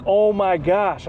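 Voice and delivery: drawn-out awed oh my gosh; slow stunned disbelief; slow amazed gasp. Retold or imitated. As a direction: let it sink in slowly, amazed. Friend's amazed reaction.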